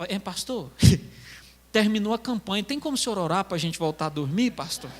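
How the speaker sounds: amused imitation of a sheepish request; pleading church members. Weary members pleading with the pastor.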